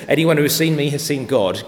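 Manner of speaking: a hint of a pompous pretender claiming to be God; mock false preacher. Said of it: "If anyone ever stands up in this pulpit and says".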